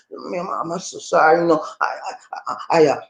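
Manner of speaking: fast, stammering sorry; nervous apologetic plea; flustered apology. Shown as a demonstration. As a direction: rush out apologies, tripping over words. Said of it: "you run your story on 'em".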